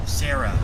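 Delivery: Sarah said clearly, firmly, with falling tune; Sarah, hard on the first syllable; stress on Sarah. Real, not acted. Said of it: "No, not, not Siri".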